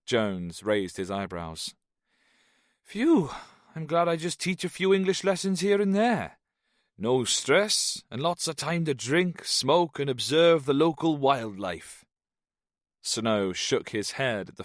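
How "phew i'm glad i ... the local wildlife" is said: high, loud lilting Welsh; a tipsy Welshman's lazy boast; lilting Welsh accent. A narrator's reading. Jones brags about his easy life in a Welsh lilt. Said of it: "Jones's diction was lilting and slow".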